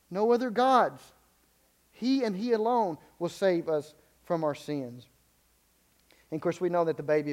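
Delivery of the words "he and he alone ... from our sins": slow, "He" and "he" each leaned on; "He and he alone" slowed, both "he" punched; stress on HE. Shown as a demonstration. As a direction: pace it out, hammering "He". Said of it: "It is emphatic in the Greek".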